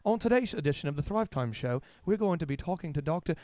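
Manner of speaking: a hint of a polished, smart radio intro; smart-sounding host. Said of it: "if I sounded smart".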